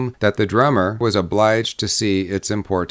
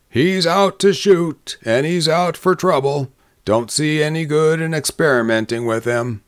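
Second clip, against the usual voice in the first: higher voice settling as it goes, lightly scornful; scornful townsman; 6 semitones higher than usual. A narrator's reading. Men answering the drummer's question, mildly scornful. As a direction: start high and measured, then ease down.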